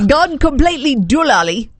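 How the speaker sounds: amateur British lilt; attempted British accent. Shown as a demonstration. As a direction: announce it as a would-be Brit. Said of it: "say these all with a British accent".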